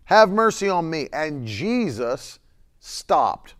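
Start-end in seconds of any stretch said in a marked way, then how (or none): 0.0-1.1 high, loud desperate plea; crying out more. Retold or imitated. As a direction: shout over those telling him to hush. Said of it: "cried out all the more".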